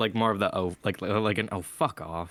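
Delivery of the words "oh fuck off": put-on under-breath mutter, much lower and slower. Describing how he would have said it, the speaker retells an under-breath mutter. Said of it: "passive under his breath".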